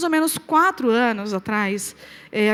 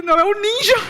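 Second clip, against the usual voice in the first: joking denial; 8 semitones higher, 7 dB louder than usual. Retold or imitated.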